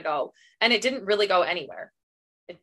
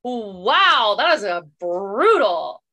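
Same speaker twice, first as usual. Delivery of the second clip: shocked; 4 dB louder, much slower than usual. Retold or imitated. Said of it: "And I was like".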